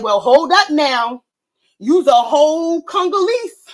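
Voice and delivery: slow, mildly stern retelling; a hint of a man cutting her off; retelling the white man on TV, mild mock sternness; lightly voiced white man. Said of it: "And the white man said".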